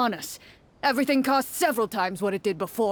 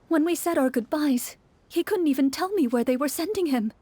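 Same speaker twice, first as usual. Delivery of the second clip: whisper; 3 semitones higher than usual. Acted. Woman speaks to traveler.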